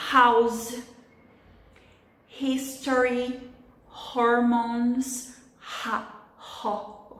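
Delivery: "House, history, hormones, ha, ho" one by one, each opening on an aspirated H; isolated words, clear breathed H; H sound. Shown as a demonstration. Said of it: "É a pronúncia do H".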